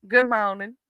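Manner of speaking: "Good morning." with no R, close to moaning. Shown as a demonstration. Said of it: "Almost sounds like I'm saying moaning".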